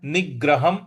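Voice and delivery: निग्रहं with a doubled g, "nig-graham"; stress on g. Shown as a demonstration. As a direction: hit the g in निग्रहं. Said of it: "ग पर हमको आघात देना है". (निग्रहं में ग पर आघात)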